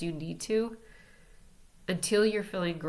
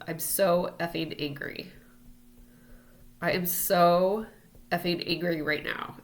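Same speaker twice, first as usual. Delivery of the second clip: angry venting mantra; 4 dB louder than usual. Shown as a demonstration. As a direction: vent it out loud, as if alone in a room. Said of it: "what I say oftentimes is".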